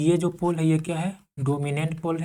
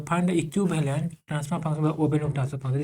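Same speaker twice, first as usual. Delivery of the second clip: slow read-out; much slower than usual. Shown as a demonstration. Teacher reads problem statement aloud.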